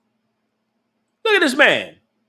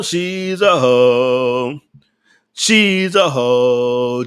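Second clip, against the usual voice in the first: drawn out very slowly and lower; slow emphatic verdict; 6 semitones lower, much slower than usual. Acted. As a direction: stretch every word like a final ruling.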